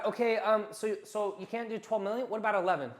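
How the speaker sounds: a rookie salesman haggling against himself, desperate. Shown as a demonstration. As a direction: beg down the price like a nervous beginner. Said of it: "what do rookie salesmen do".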